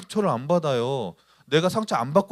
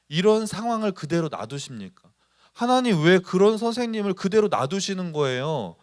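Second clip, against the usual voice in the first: mildly resentful plea to God; resentful complaint. Acted. Student complains to God about an unfair teacher, resentfully. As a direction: act out a reproachful, questioning prayer. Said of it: "그런 원망의 마음이".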